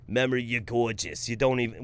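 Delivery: a rough attempt at a New Jersey accent. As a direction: try New Jersey, slipping toward Boston. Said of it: "but with a New Jersey accent".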